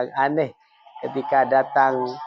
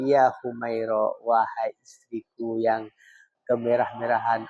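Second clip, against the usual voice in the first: gentle, tender address; 2 semitones lower than usual. Retold or imitated. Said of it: "intonasinya lemah lembut".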